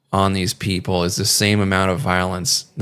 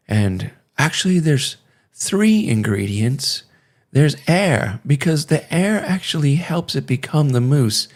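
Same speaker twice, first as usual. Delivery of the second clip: higher, lightly voiced lady explaining mousse; a hint of a higher-pitched lady chef; imitating the lady chef; 4 semitones higher than usual. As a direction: mimic her chirpy cooking-show explanation, a bit higher. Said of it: "they're like".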